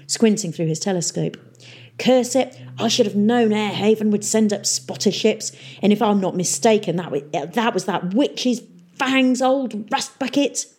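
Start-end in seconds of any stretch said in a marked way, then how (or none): 2.0-10.7 pirate mayor cursing. Acted. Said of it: "hissed Peavy".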